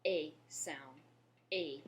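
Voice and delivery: "A" as the French é vowel; French é sound. Shown as a demonstration. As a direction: say "A" like a pure é, as a sound demo. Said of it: "changes the pronunciation of the E".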